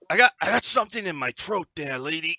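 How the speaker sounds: croaky frog voice. Acted. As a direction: talk like a little frog. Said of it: "I'm gonna do frog voice".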